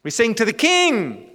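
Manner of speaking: "King" lifted high and punched, then falling; rousing declaration. Real, not acted. Preacher urging congregation not to mumble in worship, rousing declaration. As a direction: proclaim it, swelling onto "King".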